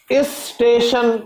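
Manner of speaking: اسٹیشن drawn out slowly as istation; mock local istation; imitating Karachi istation. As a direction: stretch اسٹیشن with an added i at the start. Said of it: "وہ شروع میں آئی لگا دیں گے".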